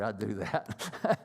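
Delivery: sheepish laugh through the words, slowly. Real, not acted. Confessing to the class about his temper, laughing. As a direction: laugh it off while owning up. Admitting his own angry habit.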